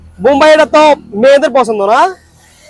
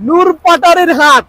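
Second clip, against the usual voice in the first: upbeat Noakhali dialect, noticeably higher; 4 semitones higher than usual. Pretend. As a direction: invite him to the market in Noakhali dialect. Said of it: "Noakhali ভাষা করলে".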